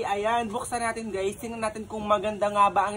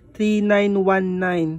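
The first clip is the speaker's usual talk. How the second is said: "Three nine one nine" slow and louder; slow price reveal; 7 dB louder, much slower than usual. Acted. Vlogger announcing the tablet price. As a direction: spell out the price deliberately.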